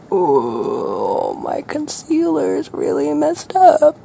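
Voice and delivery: hammed-up influencer complaint, stretched out; put-on influencer voice. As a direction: play up a silly influencer voice. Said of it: "Okay, I'll stop".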